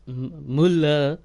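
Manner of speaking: slow, halting sounding-out of foreign words; struggling to read German. Real, not acted. Streamer trying a German message aloud, slow and halting. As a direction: stumble through unfamiliar German. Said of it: "I can't even say any of these words".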